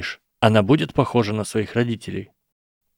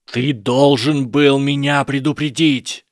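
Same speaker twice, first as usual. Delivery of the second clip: louder, slow demand, rising to a shout; raised accusation; 5 semitones higher, 4 dB louder, slower than usual. A narrator's reading. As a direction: press the blame on Harry, voice climbing. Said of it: "Голос Драко становился всё громче".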